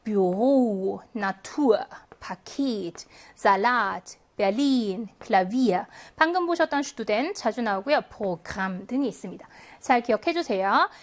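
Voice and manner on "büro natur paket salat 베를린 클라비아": Büro, Natur, Paket with the second syllable stressed; lower-pitched word list, late stress in each word from Büro to 클라비아; stress on later syllable. Shown as a demonstration. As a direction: read Salat, 베를린, 클라비아 as a measured list, each stressed after the first syllable. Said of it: "이음절 이후에 강세가 오는 아이들".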